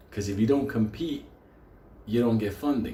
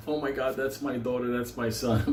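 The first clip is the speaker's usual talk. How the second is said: proud parent. Retold or imitated. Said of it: "Their parents are so proud of them".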